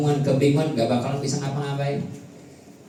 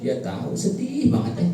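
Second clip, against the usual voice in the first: mock sad mother; 7 semitones higher than usual. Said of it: "Ibu-ibu nonton film India".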